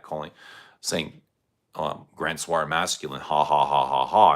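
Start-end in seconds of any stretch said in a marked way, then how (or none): 2.2-4.4 mocking laugh. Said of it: "somebody laughed at that".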